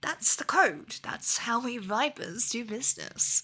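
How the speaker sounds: lightly voiced rough hunter, easygoing; a hint of a drawling beast hunter; Viper hunter voice. Streamer voicing the Viper making his offer, lightly in character.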